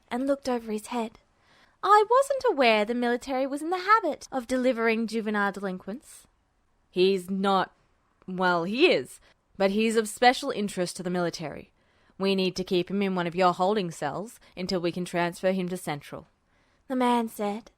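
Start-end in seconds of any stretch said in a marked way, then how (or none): 1.8-6.3 lightly voiced stern clerk, a touch quick; dry official remark, barely hiding amusement; a hint of a stern clerk; dry desk clerk. 6.9-16.3 lower-voiced military man, hurried; a low, businesslike soldier explaining; low military escort voice; gruff escort.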